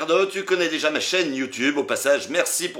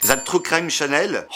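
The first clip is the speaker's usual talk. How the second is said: English accent; 3 semitones higher than usual. Real, not acted. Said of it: "oh mon accent".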